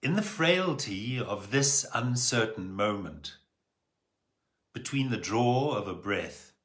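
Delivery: measured poem recital with long pauses; solemn, spaced-out verse reading; poetry reading. Acted. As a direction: read your poem aloud, letting each phrase hang. Reads own poem aloud.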